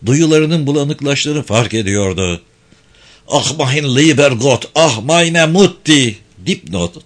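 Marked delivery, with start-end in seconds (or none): 3.3-6.2 slow, drawn-out cry climbing higher; anguished wailing. Acted. Dying German calling for God and mother, anguished wail. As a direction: wail it slowly, building in anguish.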